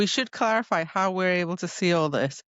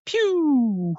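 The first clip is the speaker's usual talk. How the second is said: pew sound; 7 semitones higher, 4 dB louder than usual. Retold or imitated. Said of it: "same power as the Cauldron".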